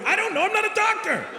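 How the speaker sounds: very high comic yelp; squealed mock-defensive protest; defensive outburst. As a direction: burst out high-pitched, giving up. Defensive outburst after a silly theory.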